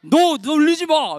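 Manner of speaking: drawn-out mock scolding; pretend-cross friend; acted angry warning. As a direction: tell a teaser off slowly. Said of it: "화가 너무 났는지".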